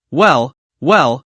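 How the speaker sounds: a lightly voiced, sneering well well; drawn out as a put-down; mock well well. Driver mocks the boastful passenger with sneering well well. Mocking the show-off executive.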